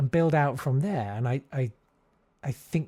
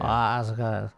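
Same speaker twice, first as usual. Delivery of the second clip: put-on rougher South London accent; 3 semitones lower than usual. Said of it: "learn how to, like, sort of".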